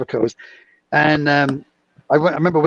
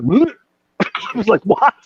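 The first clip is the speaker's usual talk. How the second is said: shocked what; 7 semitones higher, slower than usual. Retold or imitated. Shocked at nail removal.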